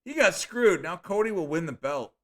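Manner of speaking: loud, high "He got screwed", settling down by the end; shouted again. Shown as a demonstration. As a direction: call it out again, a bit calmer. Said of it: "Now, going again".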